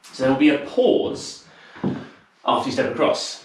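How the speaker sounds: slightly winded while explaining; out of breath. Real, not acted. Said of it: "I'm a little bit, uh, out of breath today".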